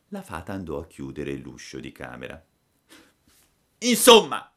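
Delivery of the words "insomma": put-on very high, loud childish outburst; tearful cry. A narrator's reading. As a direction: cry out like a puppet in a tantrum. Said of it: "gridò Pinocchio, dando in uno scoppio di pianto". (grido piagnucoloso e acutissimo)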